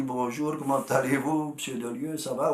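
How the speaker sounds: put-on light rocky Chevron accent; lightly imitated Chevron accent; Chevron country accent. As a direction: greet politely in a rustic Walloon accent from Chevron. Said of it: "avec mon accent à rocailleux de Chevron".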